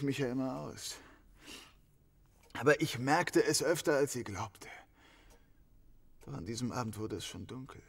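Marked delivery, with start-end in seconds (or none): 6.3-7.8 hushed. Acted. Suspect recalls the fatal evening.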